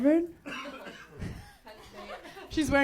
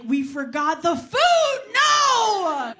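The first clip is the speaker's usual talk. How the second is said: drawn-out panicked cry, rising high; mock panic; 8 semitones higher, 6 dB louder, much slower than usual. Host discovering the party has no food, panicked wail. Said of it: "be like".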